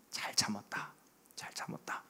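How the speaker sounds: a breathy whispered well done, said twice; whispered praise. Acted. God praising a parent who held back anger, in a whisper. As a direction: barely breathe the words.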